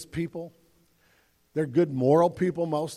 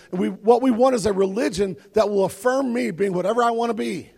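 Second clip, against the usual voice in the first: loud, driving sermon climax; preaching at full force; 5 semitones higher, 7 dB louder than usual. Acted. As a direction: press the point home to the crowd.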